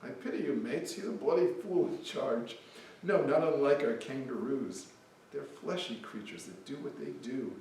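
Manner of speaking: put-on light Australian accent reading the poem; Aussie voice. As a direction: play a mocking Aussie, lightly. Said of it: "An Aussie".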